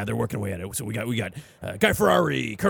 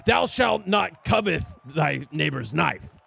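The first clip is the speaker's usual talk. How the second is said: solemn scripture reading; slower than usual. Acted. Reciting mock scripture.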